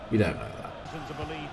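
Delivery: drawn out and hushed; quiet aside. Real, not acted. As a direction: drop it to a slow, soft aside. Repeats his correction as an aside.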